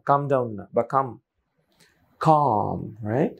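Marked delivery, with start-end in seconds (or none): 2.2-3.1 "কাম" with a drawn-out ah; long open vowel. Shown as a demonstration. Teacher repeats the correct calm, long ah. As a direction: hold the ah in "কাম". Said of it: "not কাম না".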